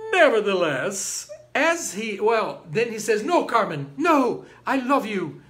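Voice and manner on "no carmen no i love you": hammed-up lover's plea, raised pitch and volume; pleading. Don José begging Carmen to believe him, mock pleading. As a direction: plead your love insistently, playing it up.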